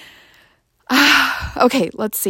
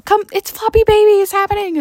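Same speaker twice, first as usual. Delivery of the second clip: higher, louder call across the house; retold yell; 11 semitones higher, 4 dB louder, faster than usual. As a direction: call the others over, excited. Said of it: "we would yell".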